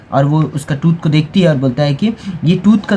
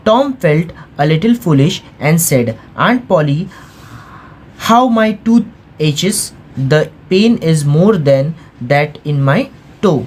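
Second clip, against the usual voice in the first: very slow, careful read-aloud of English; slow textbook reading; much slower than usual. A narrator's reading. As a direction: read each word slowly for the class. Teacher reads English text aloud.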